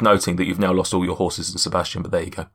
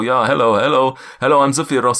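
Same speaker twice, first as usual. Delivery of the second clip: louder, lightly put-on giant voice; giant's voice; 4 semitones higher, 4 dB louder than usual. GM testing the cloud giant voice on the players. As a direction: try out the giant's greeting. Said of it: "this is the voice I'm going for".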